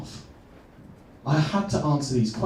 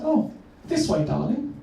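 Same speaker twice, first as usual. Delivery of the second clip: much higher sweet motherly lilt; mum's voice; 5 semitones higher than usual. Retold or imitated. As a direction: answer like a doting mum. Mum answers her son.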